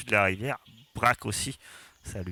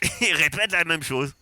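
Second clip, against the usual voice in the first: amused high voice; 9 semitones higher, 4 dB louder than usual. Real, not acted. GM mocks endless wait.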